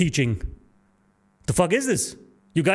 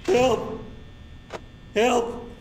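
calling for help; 4 semitones higher, much slower than usual. Real, not acted. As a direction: shout for help in fear.

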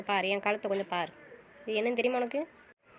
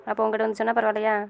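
heated argument; 3 semitones lower, 9 dB louder than usual. Acted. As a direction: argue back hard. Couple argue heatedly.

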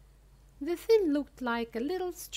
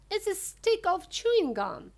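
much higher, excited exclamation; excited yell; 9 semitones higher, 4 dB louder than usual. A narrator's reading. Gum-chewing girl announces her discovery, yelling excitedly. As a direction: burst out with the discovery, high-pitched. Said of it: "let out a yell of excitement".

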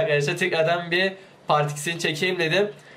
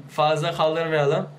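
ordinary talk

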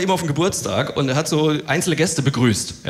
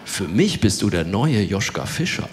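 dry retort; 6 semitones lower, slower than usual. Retold or imitated.

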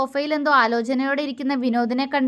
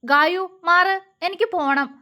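serious; 5 semitones higher than usual. A narrator's reading. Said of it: "അവൻ ഗൗരവത്തോടെ പറഞ്ഞു".

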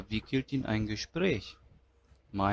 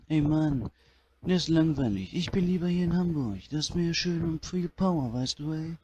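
Udo impression; 3 semitones higher than usual. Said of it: "schönen Udo".

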